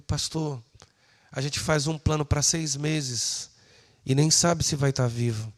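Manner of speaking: ordinary talk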